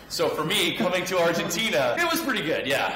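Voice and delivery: high, loud and laughing; real amusement, pitched right up; amused delight. Real, not acted. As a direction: break into a laugh as you go. Laughs about escaping cold Montreal winter.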